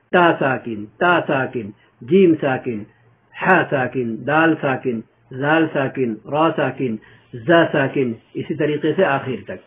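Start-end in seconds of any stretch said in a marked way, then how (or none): 0.1-8.1 spelling drill. Shown as a demonstration. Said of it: "spelling کیسے کریں گے؟".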